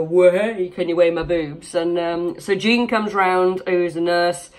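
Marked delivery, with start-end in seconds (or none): 0.0-1.8 a loud playful "Whoa" then a teasing ask; jokey mock exclamation. Retelling the boob-weighing joke, mock playful call. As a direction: play it as the old joke between friends, a bit louder. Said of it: "where you go".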